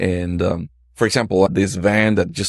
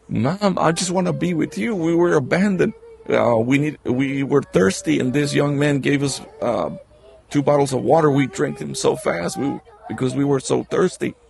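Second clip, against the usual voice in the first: higher, imitating a crying girl's plea; retold tearful plea; 5 semitones higher than usual. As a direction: voice the little girl begging through tears, lightly. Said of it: "the two girls are starting to cry".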